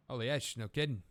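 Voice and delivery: put-on accidental Australian accent in character. Game character answers Sal, Australian accent. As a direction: voice the reply with an amateur Australian twang. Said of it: "I'm doing Australian".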